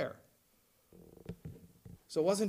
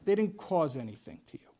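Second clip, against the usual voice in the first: gentle God voice; 6 semitones lower, 5 dB quieter than usual. Retold or imitated. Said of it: "He says".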